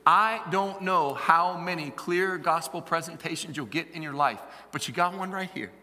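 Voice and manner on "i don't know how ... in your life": slow, deliberate words; measured, emphatic clarity; said clearly. Real, not acted. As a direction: spell it out slowly for them. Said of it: "Let me say this clearly".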